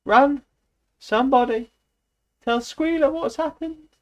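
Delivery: high, loud frantic cries; urgent shout. A narrator's reading. Clover sending the animals to Squealer, frantic shout. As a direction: yell at them to run for help.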